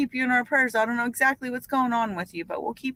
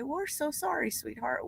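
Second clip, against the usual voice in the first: soft, sincere sympathy; gently offering condolences; tender condolence; 2 semitones higher, 9 dB quieter, slower than usual. Real, not acted. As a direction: drop softer to console a grieving friend. Condolence for a viewer's loss.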